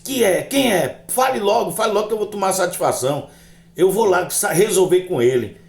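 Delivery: high-pitched, heated demand; animated mock outrage, pitched high; acted indignant challenge. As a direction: demand a name, spoiling for a fight. Demands to confront the voice's owner.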